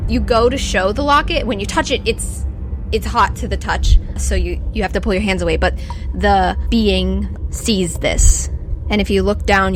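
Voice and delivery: ordinary talk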